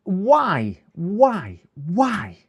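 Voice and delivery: high, loud why, repeated and fading; mock anguish aimed at the sky; despairing wail. Real, not acted. Streamer lamenting to chat, high and loud.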